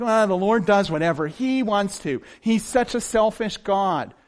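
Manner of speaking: slow, mildly whiny complaint; a hint of petulant whining; mock whining. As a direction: grumble it like a sulking child. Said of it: "He wasn't whining like".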